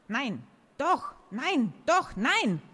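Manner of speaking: volley contradictions back and forth; escalating squabble. A narrator's reading. Escalating yes-no quarrel between characters.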